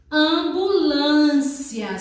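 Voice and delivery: AMBULÂNCIA slowly measured out, with "cia" kept together; syllable by syllable. Shown as a demonstration. Teacher showing that cia does not split, syllable by syllable. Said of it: "O cia de ambulância não se separa".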